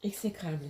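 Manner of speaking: "Exécrable" articulé, appuyé, descendant; détacher "Exécrable" syllabe par syllabe; stress on exécrable. Shown as a demonstration. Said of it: "tu regarderas dans le dictionnaire". ("Exécrable" bien appuyé pour l'enfant)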